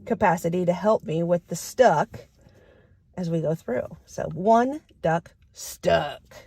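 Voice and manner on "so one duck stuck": slow, grumpy growl; little growl. Shown as a demonstration. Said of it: "That same little growl, grumpy voice".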